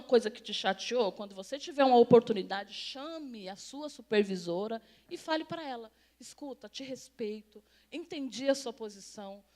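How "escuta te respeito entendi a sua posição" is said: composed, respectful model reply to a boss; calm assertiveness demo. Shown as a demonstration. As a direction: say it evenly and deliberately. Models calm words to a supervisor.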